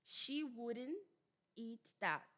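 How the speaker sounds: WOULDN'T as "wurren", then a pause before "eat that"; American pronunciation. Shown as a demonstration. Teacher repeating the example for students, American tapped WOULDN'T. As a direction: drop the T in WOULDN'T, D as a light tap. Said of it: "Ele vira um R".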